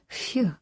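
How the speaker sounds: short exhaled "phew" after a tense call; relieved phew. A narrator's reading. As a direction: let out a quick sigh of relief. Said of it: "Tom said".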